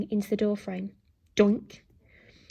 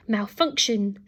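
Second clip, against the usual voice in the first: posh robot voice; 4 dB louder, slower than usual. Acted. Robot repeats error.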